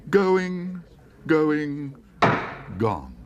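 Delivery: high, loud sale-room appeal; auctioneer pleading. Acted. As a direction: plead for bids, then bang it down. Auctioneer pleading, then closing sale.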